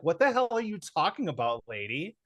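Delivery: retold exasperation. Student retort to the teacher's advice, mock exasperation. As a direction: push back in mild disbelief. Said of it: "And you're like".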